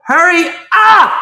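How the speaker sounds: high, very loud drawn-out holler; re-enacted scream. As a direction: scream it slowly, as retold provocation. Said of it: "So I scream".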